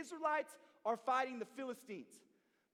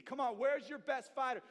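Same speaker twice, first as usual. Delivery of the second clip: taunting; 2 semitones higher, 3 dB louder than usual. Retold or imitated. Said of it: "He's taunting them".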